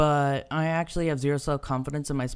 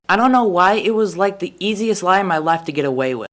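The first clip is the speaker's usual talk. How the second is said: ordinary delivery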